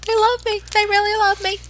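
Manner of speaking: high, gushing tearful-joy acceptance speech; overjoyed award winner, voice up high; Sally Field. Retold or imitated. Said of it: "She had a Sally Fields moment".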